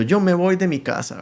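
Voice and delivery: a child's mock-angry declaration; angry little boy. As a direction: act out a small boy announcing in a huff. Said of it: "estaba enojado, un niño".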